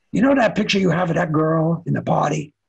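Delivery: lightly voiced gangster; a hint of phone-call gangster menace. Gangster type calls a photographer about a picture, lightly voiced gangster. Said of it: "it's like a gangster was on the line".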